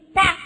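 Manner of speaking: sudden percussive crack; short explosive slap; imitated wave smack. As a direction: mimic a wave hitting the hull. Imitates wave hitting boat.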